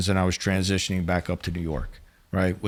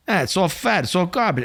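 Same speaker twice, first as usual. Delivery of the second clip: disgusted complaint; 8 semitones higher than usual. Retold or imitated. Boss complaining about food.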